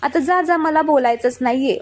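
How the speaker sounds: mock-furious rant about the guavas; angry reproach. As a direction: scold her like a hurt, angry husband. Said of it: "तुला राग आल्यावर".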